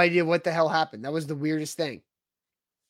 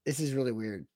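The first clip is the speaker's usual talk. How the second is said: buffering stutter; 6 semitones lower, 10 dB quieter than usual. Real, not acted. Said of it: "You sound like robots".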